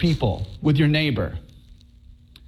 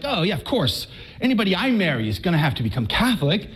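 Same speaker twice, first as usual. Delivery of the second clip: casual; faster than usual. Retold or imitated. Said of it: "she just said it so casually".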